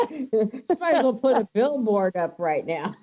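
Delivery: talking through real laughter; giggling while she speaks; laughing. Real, not acted. Laughing at mom's reveal.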